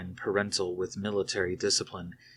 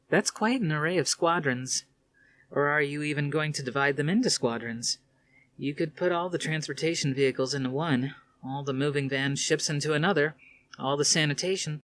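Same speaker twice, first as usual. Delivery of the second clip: put-on lightly raised, sardonic young woman; young woman's voice; 7 semitones higher than usual. A narrator's reading. Athena needling her commander father, lightly voiced higher.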